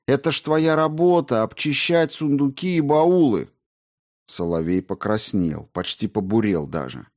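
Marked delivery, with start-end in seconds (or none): 0.1-3.5 high, insistent reproach; heated, higher-pitched rebuke; indignant scolding. A narrator's reading. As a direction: berate him for failing.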